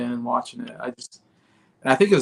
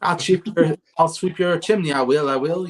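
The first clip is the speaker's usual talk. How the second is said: higher-pitched mock Cockney; Cockney accent; 5 semitones higher than usual. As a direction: imitate a chimney sweep in playful Cockney. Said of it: "I always love that Cockney accent".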